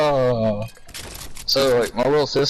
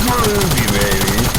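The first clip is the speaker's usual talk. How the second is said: hammed-up Austin Powers catchphrase; Austin Powers impression; 2 semitones lower, 4 dB louder, slower than usual. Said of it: "He's like".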